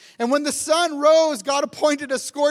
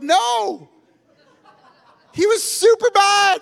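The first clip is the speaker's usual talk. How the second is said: laughing; 9 semitones higher, 6 dB louder, slower than usual. Retold or imitated. Telling son Jonah was bad.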